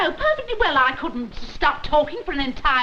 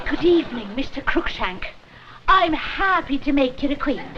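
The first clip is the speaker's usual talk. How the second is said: put-on Scottish accent. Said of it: "have a go at a Scottish accent".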